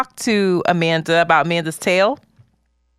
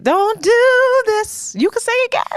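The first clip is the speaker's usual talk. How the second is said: laughing; 13 semitones higher than usual. Real, not acted. Laughing high pleading.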